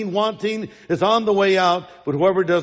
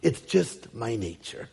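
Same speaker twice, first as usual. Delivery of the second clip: lightly put-on British scorpion; measured mock British accent; 4 semitones lower than usual. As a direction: explain it with a hint of British accent. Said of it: "he would have a British accent".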